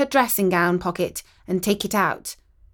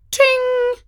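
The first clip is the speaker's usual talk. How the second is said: message ping. A narrator's reading. Text message alert sound.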